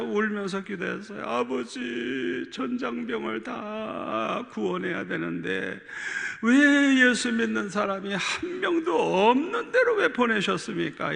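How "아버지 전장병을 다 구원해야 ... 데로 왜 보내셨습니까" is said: slow, pleading prayer that breaks into a higher cry; retold weeping prayer, slow then rising. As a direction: plead through tears. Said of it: "이러면서 이제 막 울면서 기도했어요".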